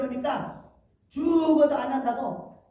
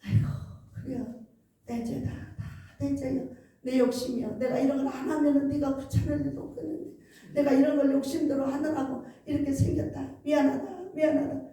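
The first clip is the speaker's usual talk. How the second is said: tearful apology. Retold or imitated. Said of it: "막 울면서 막 하는 거예요".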